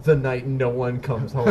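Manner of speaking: slow tagline through laughter; laughing. Retold or imitated. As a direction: read it while laughing.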